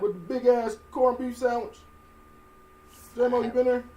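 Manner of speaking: high, loud hype read; radio announcer voice. Pretend. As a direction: pump up the crowd like a DJ. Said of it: "since you got the radio voice".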